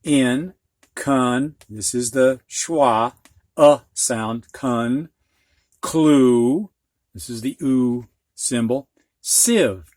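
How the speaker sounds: In, con, clue, sieve said syllable by syllable; sounding out syllables. Shown as a demonstration. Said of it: "they show you how to sound it out".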